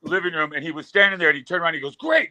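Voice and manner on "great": sudden high-pitched enthusiastic imitation; mock excitement. High friend greets him at dawn, mock-excited. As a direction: jump way up in pitch, overeager.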